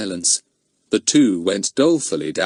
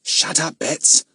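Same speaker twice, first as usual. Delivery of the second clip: low-key cross rebuke; a touch of sudden crossness; 7 semitones higher, slower than usual. A narrator's reading. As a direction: cut her off, mildly cross. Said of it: "in a low and most unexpectedly cross voice".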